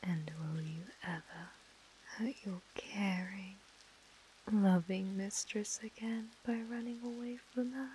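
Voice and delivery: possessive mistress, whispering and murmuring; whispered asmr role play. Acted. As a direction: coo and whisper to a captive. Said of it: "my A S M R roleplay".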